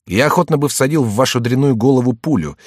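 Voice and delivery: explosive rage. Acted. Insulting threat in duel.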